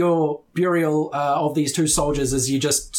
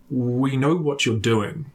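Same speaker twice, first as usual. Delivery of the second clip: menacing priest; 2 semitones lower, slower than usual. Acted. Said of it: "he puts his hand... and he says".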